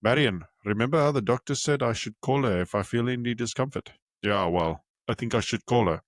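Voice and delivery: put-on light Afrikaner accent, lightly done; a hint of a South African Afrikaner accent on the vowels. Grandpa telling grandma about chest pain, in a light Afrikaner accent. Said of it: "time to put on your best Afrikaner accent".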